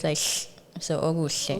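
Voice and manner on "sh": "sh-" as a sideways hiss; voiceless hissed demo of "sh-"; hissing sound. Shown as a demonstration. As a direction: hiss "sh-" like a cat or snake. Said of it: "it's like hissing, like a, a cat or a snake".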